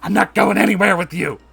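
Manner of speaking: loud, high, indignant woman; shrill Karen refusing arrest; defiant refusal. Acted. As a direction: dig in your heels. Deborah refuses the officer.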